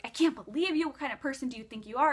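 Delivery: high, indignant mock boss; retold scolding. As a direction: imitate a boss telling someone off. Angry boss scolding on a call.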